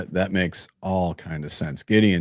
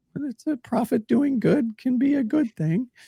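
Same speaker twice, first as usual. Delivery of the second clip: serious tone, voice rising very high. Trying to make a serious point, voice going up high. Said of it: "my voice went up high about that".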